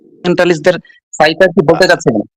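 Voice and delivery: choppy breaking-up call audio; buffering stutter. Real, not acted. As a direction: voice cutting in and out online. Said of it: "আপনার কথা কেটে কেটে যাচ্ছে". (কেটে কেটে যাওয়া কণ্ঠ)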